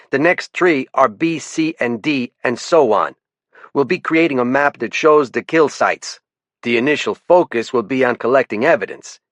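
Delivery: lieutenant calling out a warden, faint French-Canadian lilt; French-Canadian accent. Acted. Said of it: "brought a sing-song melody to many of his sentences".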